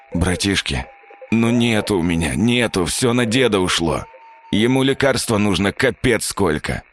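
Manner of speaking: wheezy mumbling through a beaten mouth; hoarse, barely moving tongue. Acted. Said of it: "просипел, еле ворочая языком". (сипло, еле ворочая языком)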